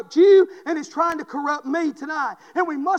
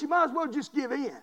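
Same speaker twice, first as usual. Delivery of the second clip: hushed repeat; 9 dB quieter than usual. Acted. Same warning repeated low.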